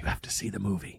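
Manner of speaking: unvoiced, hushed whisper. Shown as a demonstration. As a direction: whisper the instruction. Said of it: "Whisper me".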